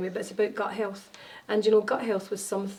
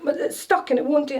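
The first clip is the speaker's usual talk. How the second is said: put-on child's whine; 6 semitones higher, 6 dB louder, faster than usual. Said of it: "And he was like".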